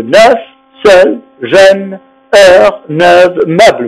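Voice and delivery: "neuf, seul, jeune, heure, neuve, meuble" with open eu and sounded consonant; word list demonstrating open eu in "neuf, seul, jeune, heure, neuve, meuble"; pronounced final consonant. Shown as a demonstration. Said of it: "on prononce la consonne".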